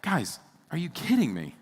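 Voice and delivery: impassioned sermon build; getting intense. Real, not acted. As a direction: press the point hard, rising with urgency. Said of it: "I know I'm getting, like, really, intense".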